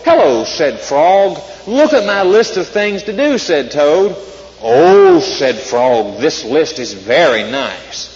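lively storybook read-aloud; reading to children. Acted. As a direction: read it like a bedtime story for kids. Reads Frog and Toad aloud.

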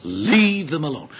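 slow, deliberate rebuke; sharp command. Acted. Jesus rebuking his disciples, sharp and deliberate. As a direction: repeat it firmly, drawing out each word. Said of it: "Jesus spoke sharply".

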